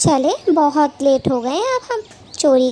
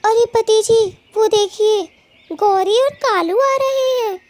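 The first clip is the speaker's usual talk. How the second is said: alarmed alert; 5 semitones higher than usual. Acted. Wife alerting husband to approaching thieves, alarmed. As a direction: warn your husband urgently.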